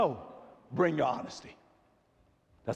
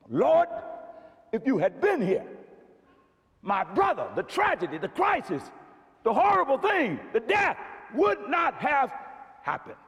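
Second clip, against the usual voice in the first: Martha's lament. Retold or imitated. Martha protesting to Jesus, building lament. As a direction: plead with rising force. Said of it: "Martha says".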